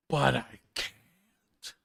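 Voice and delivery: slow drawn-out whiny but I can't; mock whine. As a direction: whine like a tired kid. Whining about sleep.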